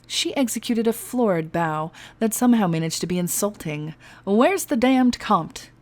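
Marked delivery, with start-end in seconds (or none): 4.2-5.7 slow, high, irritated; impatient demand. Acted. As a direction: drag out the demand. Impatient pirate.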